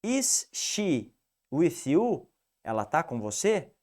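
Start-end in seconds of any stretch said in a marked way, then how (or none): 0.0-2.3 very slow, careful question; slow, deliberate English example; slow English demo. Shown as a demonstration. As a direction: lay out each word slowly for the class. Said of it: "Automaticamente é uma pergunta".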